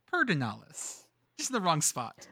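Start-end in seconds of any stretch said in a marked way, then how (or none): 0.1-1.0 Pedernales as PURR-duh-NAL-es, R in the first syllable; correct pronunciation. Shown as a demonstration. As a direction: Pedernales with the R swapped forward. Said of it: "R in there just exists".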